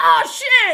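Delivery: high, loud, amazed shout. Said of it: "And they were both like".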